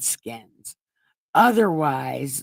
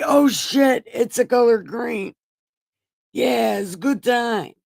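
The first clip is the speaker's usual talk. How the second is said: excited; 5 semitones higher than usual. Acted. Blind men seeing colour, excited.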